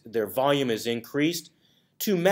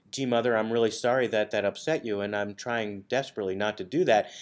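sarcastic to mom; 3 semitones lower than usual. Retold or imitated. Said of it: "felt that I was being sarcastic".

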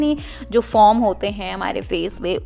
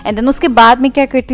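wipe pressed to lips; talking while wiping mouth; 3 semitones higher, 6 dB louder than usual. Real, not acted. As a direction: hand over mouth. Seen 0: wipe held against mouth throughout labelled words.

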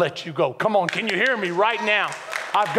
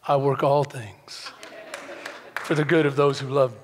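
solemn verse quote; 4 semitones lower than usual. Retold or imitated. Voices God's verse slowly.

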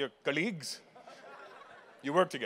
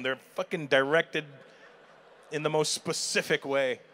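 ordinary talk

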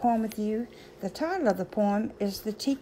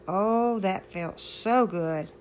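slow, relieved sigh of comfort; slower than usual. Acted. The teacup cools on the shelf after the heat, relieved. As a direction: let the relief melt out slowly.

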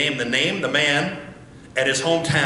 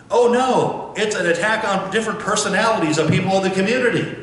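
mock outrage; 4 semitones higher than usual. Mocking diverting voices.

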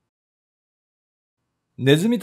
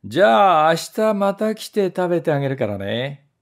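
haughty; 4 semitones higher than usual. Acted. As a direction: talk down to the trap. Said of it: "それから欧風に言いました".

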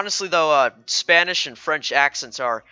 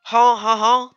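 put-on high, challenging child with French accent; badly faked French girl, prodding; little French girl; 7 semitones higher than usual. Daughter defending her accent, high French-accented child voice. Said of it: "little girl French accent".

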